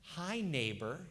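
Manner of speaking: a hint of a soft children's TV greeting; gentle TV host. Pastor imitating the children's show host, lightly soft greeting. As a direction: greet the kids like a kindly TV neighbor. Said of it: "he would talk like this".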